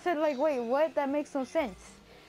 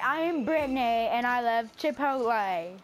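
put-on girl voice; 3 semitones lower than usual. Introducing Brittany the Chipotle lover, mock girl voice. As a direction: draw the vowels out like an affected girl. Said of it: "a girl voice right now".

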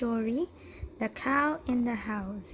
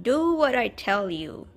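louder commanding shout; 5 dB louder than usual. Acted. Wise man shouting at the man, firm. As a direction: order him firmly. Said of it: "he shouted".

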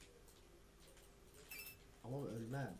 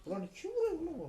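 high, loud, laughing; laughing shout; 8 dB louder than usual. Real, not acted. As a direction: yell while laughing.

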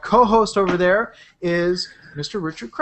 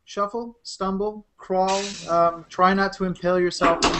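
hushed zombie host; 7 dB quieter than usual. Acted. Zombie host directing shambling crowd.

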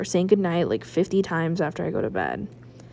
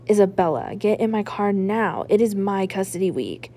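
mild mock roar. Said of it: "Then Dad roars".

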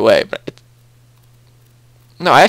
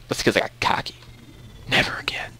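very soft, low mutter to oneself; hushed aside; 4 semitones lower, 14 dB quieter than usual. Real, not acted. Player owning up to getting cocky, hushed aside. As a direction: drop almost to a whisper. Muttering to himself after boast.

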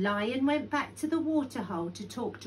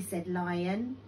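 usual speaking voice

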